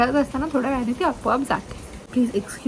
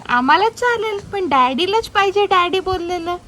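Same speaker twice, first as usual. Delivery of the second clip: voicing the dad; 5 semitones higher, 3 dB louder than usual. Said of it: "काही जण बोलतात".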